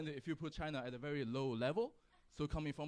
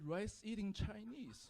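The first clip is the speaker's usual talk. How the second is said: slow, higher, softer echo; failing at anger; 6 semitones higher, 5 dB quieter, slower than usual. Acted. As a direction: repeat the insult, unable to get mad. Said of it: "So I tried to get mad. ... But I just couldn't".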